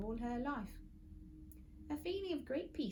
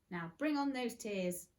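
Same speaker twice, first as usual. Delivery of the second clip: slow, deliberate demand; triumphant demand; 2 semitones higher than usual. Acted. Friday demanding tears from Mister Gum, slowly. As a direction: savour each word of the order.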